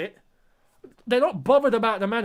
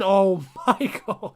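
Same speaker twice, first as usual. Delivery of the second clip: disbelieving laugh; slower than usual. Real, not acted. Fan laughs at team's blunder.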